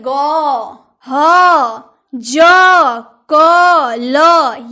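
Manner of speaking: "ग ह ज क ल" as loud, separate letter sounds; phonic sounds. Shown as a demonstration. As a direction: sound out "ग ह ज क ल" one by one with pauses. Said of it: "ये आपको पढ़ना है".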